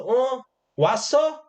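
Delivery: high, offhand "oh, you're here?"; a king tossing a careless hello over his shoulder; casual mocking greeting. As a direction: greet him like he barely matters. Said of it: "비웃으면서 얘기한 거예요".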